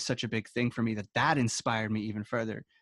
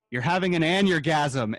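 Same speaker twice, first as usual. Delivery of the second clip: mom's punchline; 6 semitones higher, 8 dB louder than usual. Retold or imitated. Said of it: "she cracked up laughing".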